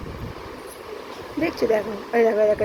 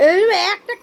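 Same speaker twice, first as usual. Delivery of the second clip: threat; 6 semitones higher than usual. Real, not acted. Threatens child with a slap.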